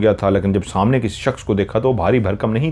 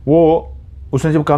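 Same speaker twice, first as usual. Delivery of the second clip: usual speaking voice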